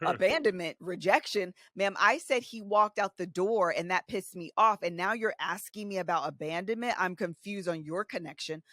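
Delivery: mock incredulous. Retorting to her therapist.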